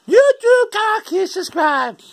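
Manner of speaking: very high, put-on squeal; squeaky high voice. Vlogger urges viewer to subscribe, in falsetto. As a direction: call it out in falsetto.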